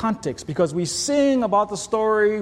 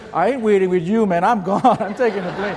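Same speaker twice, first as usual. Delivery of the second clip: wife's joking brush-off; 3 dB louder than usual. Retold or imitated. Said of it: "She goes".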